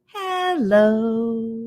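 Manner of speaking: gentle sweet hello; friendly soft hello; as nice as we can. Shown as a demonstration. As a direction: greet kindly. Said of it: "Let's say hello as nice as we can".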